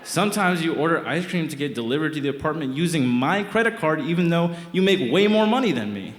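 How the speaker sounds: unloading on her point by point; heated rant. Retold or imitated. Boyfriend ranting at girlfriend during a fight, heated.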